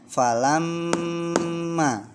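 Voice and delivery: Falamma, mm dengung ditahan lama dan pelan; held gunnah. Shown as a demonstration. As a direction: tahan mm di Falamma dua ketukan, tinggi dan pelan. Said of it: "Coba dipraktekkan bersama-sama". (Falamma dibaca dengan dengung panjang)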